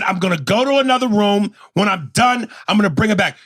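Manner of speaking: exasperated, high-pitched retort; getting loud. Retold or imitated. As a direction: raise your voice as you spell it out. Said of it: "You don't have to get loud with me".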